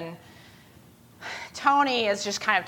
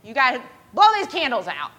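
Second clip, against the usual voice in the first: high, loud, impatient call; yelling; 5 semitones higher, 6 dB louder than usual. Retold or imitated. Harry tells Agnes to blow out candles, yelling. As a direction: yell it across to someone crying. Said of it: "Harry's yelling at her".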